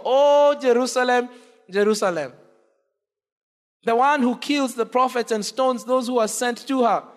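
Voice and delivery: "O Jerusalem" called out loud, then the line falls; impassioned lament. Acted. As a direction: cry out over the city like a grieving prophet. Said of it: "he breaks forth into a lament".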